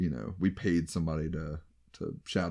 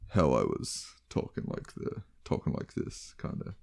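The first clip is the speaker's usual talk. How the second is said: low, unvoiced character voice; Saber; 3 semitones lower, 3 dB quieter than usual. Shown as a demonstration. Player showing co-host his game character's different voice, low and whispery. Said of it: "I was doing the fake Saber voice".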